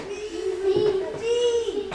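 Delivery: calling out to volunteer; loud, keen shout of me; eager shout. Real, not acted.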